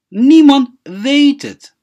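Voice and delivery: loud, high and slow, hitting Niemand hard; emphatic. Shown as a demonstration. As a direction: call out Niemand weet het with full force. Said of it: "teacher repeats phrase with force". (si xoog leh oo kor ah u dheh)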